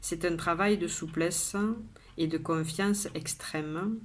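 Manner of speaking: measured poem reading with pauses between lines; poem recitation. Acted. Poet shares today's poem with viewers, measured recitation.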